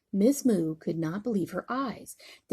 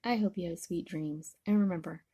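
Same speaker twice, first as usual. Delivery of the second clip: softer, quiet bedtime goodbye; tender goodnight; 4 dB quieter, faster than usual. Real, not acted. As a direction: whisper them off to sleep with love. Grandma says goodnight to child.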